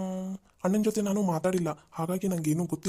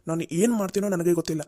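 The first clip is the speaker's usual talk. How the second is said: furious shout; 6 dB louder than usual. Acted. Boss finally yelling at Netra to get out, furious. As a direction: explode and drag out every word.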